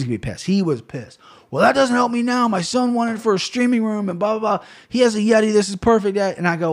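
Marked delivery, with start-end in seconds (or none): 1.5-6.2 higher, lightly put-on voice of an annoyed buyer; mock snippy buyer. Irritated buyer complaining to the seller, lightly mocked in a higher voice. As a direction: play the buyer as politely rude, lightly mocked. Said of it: "kinda politely, but kinda like an asshole-y".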